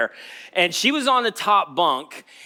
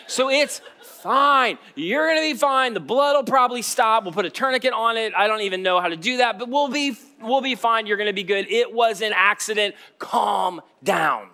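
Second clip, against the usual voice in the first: mock soothing; 4 semitones higher than usual. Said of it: "I'm like".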